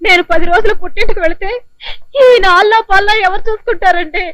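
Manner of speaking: tearful wife explaining her worry; wife weeping at leaving her husband; crying. Acted. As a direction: speak through light sobs. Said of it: "మరైతే ఎందుకు ఏడుస్తున్నావు?".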